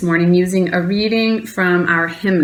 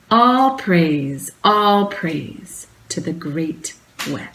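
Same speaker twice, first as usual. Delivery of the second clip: measured, slightly raised reading voice; poem reading; slower than usual. Acted. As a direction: read it like a poem before the congregation. Reading a poem at chalice lighting.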